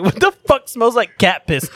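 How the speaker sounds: high-pitched, drawn-out mock complaint; imitating loud blurting. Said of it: "Really loud with this chick".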